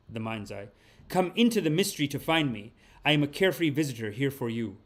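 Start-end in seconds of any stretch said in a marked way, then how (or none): 1.1-4.8 intoning the card's words to the viewers; solemn card reading. Acted. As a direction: read it like a sacred message from beyond. Rereads card lines.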